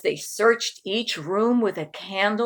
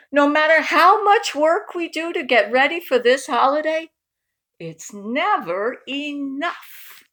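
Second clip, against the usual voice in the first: higher, louder tired aunt complaining; weary complaint; 7 semitones higher, 4 dB louder than usual. Acted. Aunt Helene complaining to Uncle Murray about the work, higher and weary. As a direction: sigh it out like a worn-out aunt.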